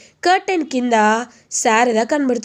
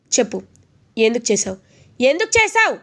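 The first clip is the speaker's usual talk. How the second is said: loud demand. Retold or imitated. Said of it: "గట్టిగా అడుగుతాడు".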